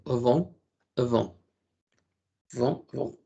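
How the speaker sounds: "vont" with swallowed nasal o; nasal "vont" drill. Shown as a demonstration. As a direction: say "vont" as if eating the n. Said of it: "Con la O N nasal, o sea, hacia adentro".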